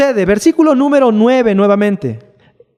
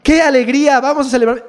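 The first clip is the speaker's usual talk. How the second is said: sarcastic fake delight; mock kid excitement; 5 semitones higher than usual. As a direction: play a child pretending to be thrilled. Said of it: "espera que el hijo diga".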